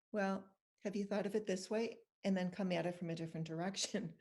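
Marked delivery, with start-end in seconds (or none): 0.1-2.0 calm question with a rising end. Retold or imitated. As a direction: imitate a child's calm, reasoned suggestion. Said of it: "very calmly say".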